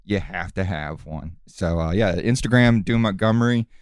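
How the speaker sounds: low calm villain voice; calm menacing wrestler. Acted. Wrestler character interviewed calmly.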